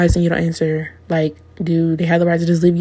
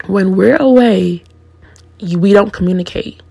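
quoting her. Retold or imitated. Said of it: "She said".

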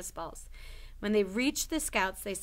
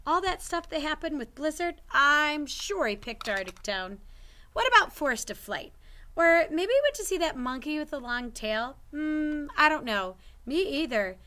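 put-on boy character voice; 7 semitones higher, 6 dB louder than usual. Richie and Ella voiced in dialogue.

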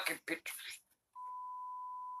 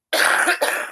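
fake cough. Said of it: "Is the coughing part".

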